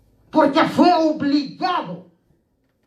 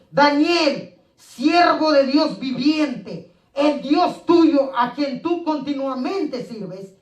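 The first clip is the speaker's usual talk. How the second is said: slow, grieving call into the lions' den; a king calling down into the pit, slow and sorrowful; mournful call; slower than usual. Acted. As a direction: call out slowly, heavy with sorrow. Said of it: "con voz triste".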